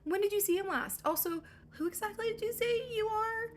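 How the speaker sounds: high-pitched, put-on whine of a weepy father; mock crying. Weepy father answers the stranger, mock crying. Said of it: "Laertes starts crying and is like".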